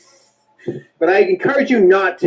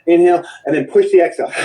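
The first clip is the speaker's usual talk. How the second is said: forced exhale; faster than usual. Shown as a demonstration. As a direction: shove the breath out hard and fast. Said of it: "what I mean is like this".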